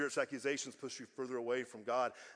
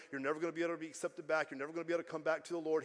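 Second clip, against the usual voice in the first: rapid-fire accusations; accusing enemy; much faster than usual. Acted. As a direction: rattle off the enemy's taunts. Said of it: "I know the enemy's saying".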